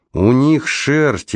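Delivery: high, drawn-out enticing answer; enticing confirmation. A narrator's reading. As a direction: confirm it slowly, pitched well up, to tempt her. Раймонд с восторгом подтверждает, уговаривая. (заманчиво, нараспев, высоким тоном)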